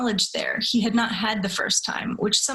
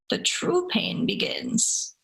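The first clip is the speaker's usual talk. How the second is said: high, slow, breathy-less whispered menace; demon's whisper; 9 semitones higher, slower than usual. Acted. Demon tells the tormented man his real pain starts, slow high whisper. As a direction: let the demon savour each word, slow and high.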